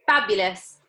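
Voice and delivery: loud delighted shout. Acted. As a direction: shout it out with glee. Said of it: "shouted Violet".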